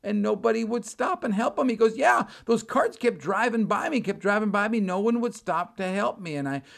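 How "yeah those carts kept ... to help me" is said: high, complaining voice; plaintive, raised retelling of being ignored; simple stranded traveler. Retold or imitated. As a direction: imitate a simple man's grievance. Voicing the stranded man's complaint.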